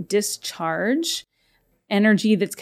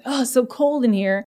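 accusatorial complaint; 4 semitones higher than usual. Shown as a demonstration. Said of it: "almost an accusatorial tone".

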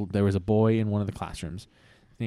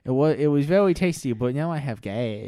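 put-on kid voice; 4 semitones higher, 4 dB louder than usual. Timmy voice.

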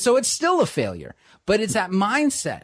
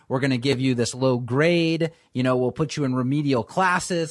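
stern school voice; 3 semitones lower than usual. Retold or imitated. Schooling model lecturing a failing student, in a lower, stern, scolding voice. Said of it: "The schooling model says".

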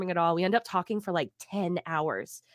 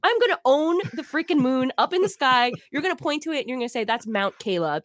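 much higher and louder, gushing dreams; giddy excitement; 7 semitones higher, 3 dB louder than usual. Retold or imitated. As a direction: bubble over with wild hopes. Retold giddy dreams of fame.

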